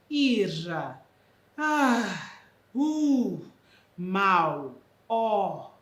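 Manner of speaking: loud annoyed outbursts; irritated exclamations. Shown as a demonstration. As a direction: snap them out in impatience. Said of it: "impaciência ou irritação".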